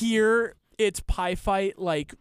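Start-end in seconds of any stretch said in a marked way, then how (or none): 0.8-1.8 slow, light imitation of the game clip; quoting the sound bite. Co-host asking if he hears it verbatim, light slow imitation. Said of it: "verbatim in your mind".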